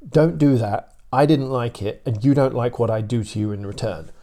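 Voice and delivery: a hint of a firm big dog laying down the law; mildly stern warning from the Great Dane's side; emphatic big dog. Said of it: "the point is quite emphatic".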